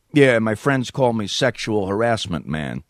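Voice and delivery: slow New York caller introducing himself; New York accent. Acted. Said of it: "me doing a New York accent".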